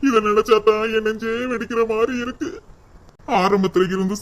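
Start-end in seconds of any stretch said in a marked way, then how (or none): 0.1-2.5 crying. Acted. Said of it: "ஏங்க, அழுகாதீங்க".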